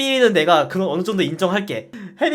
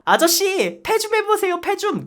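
put-on a much higher, childish pleading voice; imitating a kid; 13 semitones higher, slower than usual. Kid begging a soldier for a salute, childish high plea. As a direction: beg like a cheeky little kid. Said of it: "이거 짤 제목 뭔 줄 아세요".

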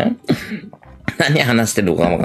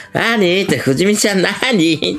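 mock high question; 9 semitones higher, slower than usual. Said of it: "とか言ってさ".

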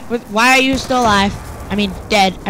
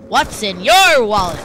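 ad slogan voice; 4 dB louder, slower than usual. Acted. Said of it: "Bank of America".

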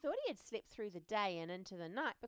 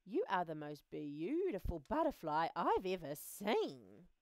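swooping, emphatic admiration; admiring ladybug; 3 semitones lower, 4 dB louder than usual. Acted. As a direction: gush in a put-on ladybug voice. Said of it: "admired the ladybug".

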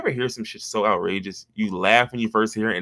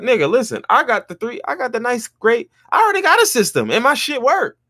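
exasperated rant; 11 semitones higher than usual. Retold or imitated. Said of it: "Because I'm like".

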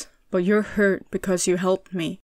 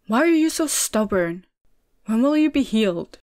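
louder, exasperated demand; 3 semitones higher, 6 dB louder than usual. A narrator's reading. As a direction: snap at his stubbornness. Exasperated young man scolding.

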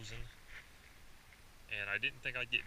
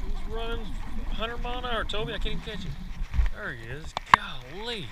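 high, loud and breathless; shouting with thrill, much higher; excited; 10 semitones higher, 7 dB louder than usual. Real, not acted. Chasing a running fish.

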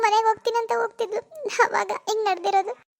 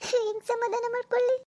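crying. Acted. Grieving wife answers husband's comfort.

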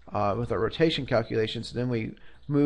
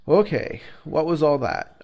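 surprised; 4 semitones higher, 6 dB louder than usual. Real, not acted. Reacting to long code line.

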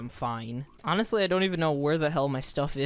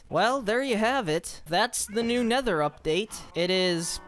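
higher upbeat sign-off voice; bright wrap-up for viewers; outro pitch; 7 semitones higher than usual. Real, not acted. Streamer signing off the video to viewers, upbeat.

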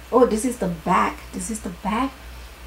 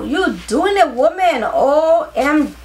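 excited cheering; 4 semitones higher, 4 dB louder than usual. Real, not acted. Cheering herself on.

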